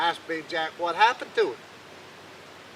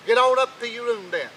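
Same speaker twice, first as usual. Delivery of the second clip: higher, louder order; gruff old king; 6 semitones higher, 8 dB louder than usual. Acted. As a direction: send him off to bed without supper. King orders Jack off to bed.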